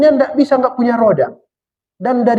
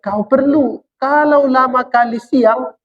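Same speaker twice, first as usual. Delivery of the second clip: slow, raised and solemn as God speaking; God declaring calmly to man, slightly higher; 4 semitones higher, slower than usual. Acted. Preacher voicing God to his listeners, slow and solemn. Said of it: "kata Tuhan".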